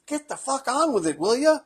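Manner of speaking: high-pitched heckler prodding; mock impatience. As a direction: imitate a fed-up listener. Impatient listener, imitated.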